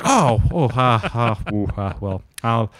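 hammed-up stammering with nervous laughs; flustered boyfriend. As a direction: stumble and fake-laugh to cover the shock. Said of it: "You'd be like".

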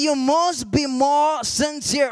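drawn-out, deliberate words; slow emphatic repeat. Retold or imitated. Preacher repeating the voice's command to the congregation, slow and emphatic. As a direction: stretch each word of the command slowly.

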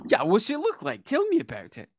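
high, eager character voice; coaxing helper. Acted. Asking Gent to describe the door, coaxing.

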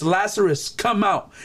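a firm call, lightly voiced; crying out. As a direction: call him out with authority, without real shouting. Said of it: "he cried out".

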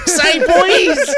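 put-on high loud Southern American "Say, boys"; hammed-up Southern American drawl; joking in a Southern American accent. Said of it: "Southern American accent".

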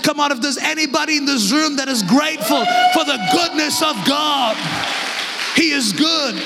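shouted, rising preacher's cry; full-force preaching. Acted. Preacher urging the church to praise God, shouting. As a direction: drive it home to the congregation.

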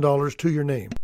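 throat catching while speaking; words through a tight, choking throat. Real, not acted. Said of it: "Sorry, I'm choking up a little bit".

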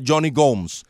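"Gomes" as a single syllable, GOHMS; English pronunciation. Shown as a demonstration. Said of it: "entonces le decía".

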